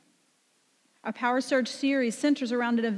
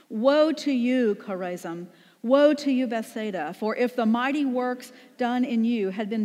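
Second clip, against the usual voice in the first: scripture reading. Acted. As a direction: proclaim the passage like a prophet's warning. Congregation reads scripture together.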